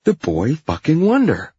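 high, loud mocking jeer; sneering. A narrator's reading. Hyde mocking the boss, loud high sneer. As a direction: jeer with scorn, swooping up high. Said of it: "Hyde says and sneers".

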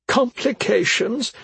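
slow, scornful high echo; bitter scoff. A narrator's reading. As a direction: scoff at the word. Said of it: "She laughed bitterly".

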